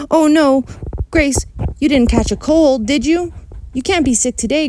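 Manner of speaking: high, loud urgent pleading; alarmed girl. A narrator's reading. Girl begging her friend on the phone, urgent. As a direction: hurry her friend along in a panic.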